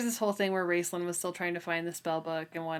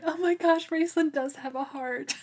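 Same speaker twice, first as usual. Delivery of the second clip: excited and higher, louder; gushing; 10 semitones higher, 4 dB louder than usual. Real, not acted. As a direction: gush over a sweet surprise. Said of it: "laughs after gushing".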